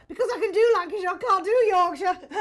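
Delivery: high, loud, fast punchline; awkwardly trying to be funny. Retold or imitated. Nervous young actress shows off to Olivier, awkwardly jokey. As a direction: blurt the joke out far too keenly. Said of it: "trying to be funny in a way".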